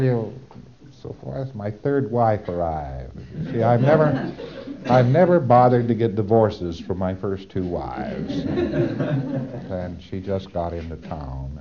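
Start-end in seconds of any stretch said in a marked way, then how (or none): 3.5-11.6 sheepish laugh through the admission; a hint of an embarrassed PC owning up; laughing confession. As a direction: chuckle it out like a guilty secret.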